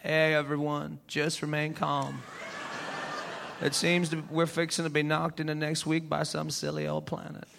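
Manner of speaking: calm folks down like Bill Clinton; Southern accent. Retold or imitated. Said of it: "a Southern accent".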